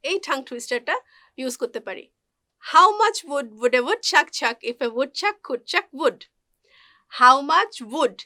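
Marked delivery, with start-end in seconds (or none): 2.7-6.2 slow, careful tongue-twister demo; measured, with every W clearly sounded; slow practice pace. Shown as a demonstration. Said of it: "প্রথম দিকে slowly practice করলেও". 7.2-8.2 "wood" with a clearly sounded "wa" onset; loud, careful model of the W in "wood"; W sound demo. Shown as a demonstration. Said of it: "ওয়া sound হবে".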